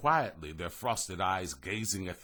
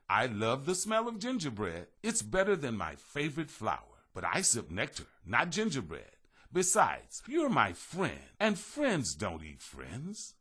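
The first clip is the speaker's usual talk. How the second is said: gentle butterfly voice; 4 semitones higher than usual. Acted. Butterfly reassures him.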